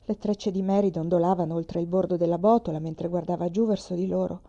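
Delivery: plain reading voice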